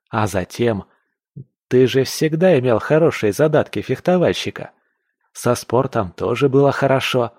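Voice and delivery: lightly voiced enthusiastic friend; lively, mildly excited persuasion; eager young hunter.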